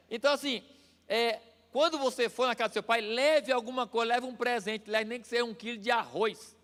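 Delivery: ordinary delivery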